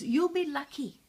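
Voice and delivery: cackling voice. A narrator's reading. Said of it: "said a cackling voice".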